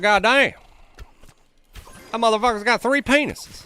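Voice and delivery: high, loud astonished yelp; squeaky high outburst of disbelief; shocked onlooker. Retold or imitated. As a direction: play a stunned bystander reacting.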